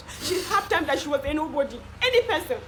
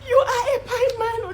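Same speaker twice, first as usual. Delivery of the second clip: tearful; 7 semitones higher, 4 dB louder, slower than usual. Acted. Consoling a suicidal friend, crying.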